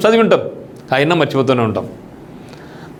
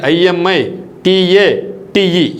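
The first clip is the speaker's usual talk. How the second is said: slow spelling out; much slower than usual. Shown as a demonstration. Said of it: "ఇమిటేట్ గుర్తుపెట్టుకోండి".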